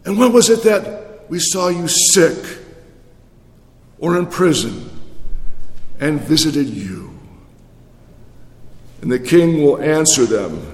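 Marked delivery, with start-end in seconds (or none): 0.0-7.1 the righteous asking. Acted.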